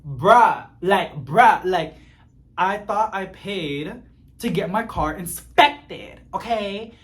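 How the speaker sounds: venting at the service guy, half yelling; retold yell. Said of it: "Oh my God, I'm yelling".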